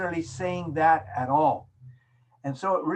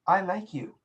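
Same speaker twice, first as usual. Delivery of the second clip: gentle, sincere "I like you"; soft and warm; 3 semitones higher than usual. Shown as a demonstration. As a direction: say it softly and mean it. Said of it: "Soft, warm".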